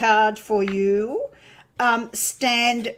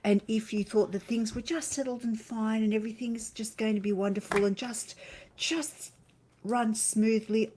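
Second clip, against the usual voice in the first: kindergarten teacher voice. Acted. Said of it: "She's put on her kindergarten teacher's voice".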